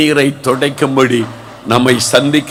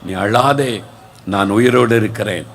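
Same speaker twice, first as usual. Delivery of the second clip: gentle Jesus voice; 5 semitones lower than usual. Acted. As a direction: hush her tears tenderly. Jesus voiced comforting weeping disciple.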